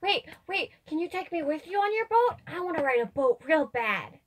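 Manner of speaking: put-on high, pleading kid voice; gush, then beg like a small child; excited little child. Player voices eager begging child.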